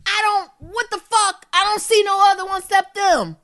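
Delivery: high, agitated protest; exasperated outburst. Real, not acted. Swearing about seeing spiders, exasperated high outburst. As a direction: burst out in exasperation.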